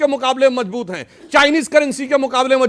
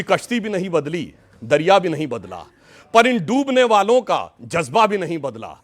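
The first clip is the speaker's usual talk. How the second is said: lower, declaimed verse with pauses between lines; poetry recitation; 6 semitones lower than usual. Acted. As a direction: recite it like a couplet, in measured phrases. Recites couplet as mock praise. (शायरी के अंदाज़ में)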